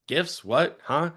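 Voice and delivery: confused customer. Retold or imitated. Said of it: "dislike this line".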